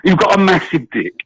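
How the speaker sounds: amateur presidential impression, laugh creeping in; half-hearted mock flattery in a president's voice; Donald Trump. British caller keeps up his attempt for the hosts, light Trump impression. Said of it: "I appreciate your attempt at".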